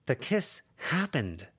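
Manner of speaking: put-on a teen girl pressing a point; Lucy's voice. Lucy pressing Avery, a lightly voiced teen.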